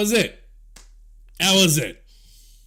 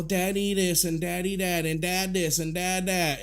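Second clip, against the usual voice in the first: mocking imitation; 2 semitones lower, 7 dB quieter than usual. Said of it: "pretend like she gives a fuck about her family".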